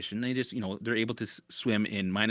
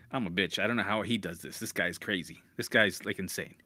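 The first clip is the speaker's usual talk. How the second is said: lower, softer, defeated grumble from hell itself; hell talking; 6 semitones lower, 3 dB quieter than usual. Retold or imitated. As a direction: voice hell as a beaten, baffled figure. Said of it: "And hell's like".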